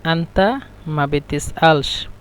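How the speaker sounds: said slowly and evenly for learners; slow teaching demo of an Arabic phrase; slow model phrase. Shown as a demonstration. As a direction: model the Egyptian phrase at a slow, clear pace. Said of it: "আঞ্চলিক ভাষা হলো".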